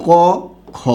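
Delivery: ক then খ said slowly letter by letter; slow letter-by-letter demo; spelled k kh. Shown as a demonstration. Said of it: "তখন তার উচ্চারণ হবে".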